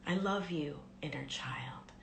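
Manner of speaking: soft whispered reassurance, fading; tender whisper. Shown as a demonstration. Speaking to the inner child, tender whisper. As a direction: hush it lovingly to a child. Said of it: "you can even start by saying".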